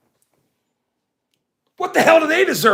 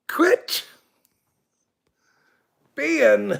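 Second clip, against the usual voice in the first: whisper; 3 semitones higher than usual. Real, not acted. Hushed aside to chatter Gio.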